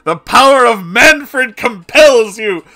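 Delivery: slow, very loud ritual chant; booming high command. Acted. Exorcist to the demon, roaring the ritual command. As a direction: hammer the words home.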